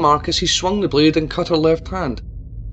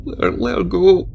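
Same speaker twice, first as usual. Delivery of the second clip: higher, louder, pleading sob; sobbing plea; 6 semitones higher, 4 dB louder than usual. A narrator's reading. Mayor begs Tabitha to release his daughter, sobbing. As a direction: beg through tears for his daughter. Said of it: "the mayor sobbed".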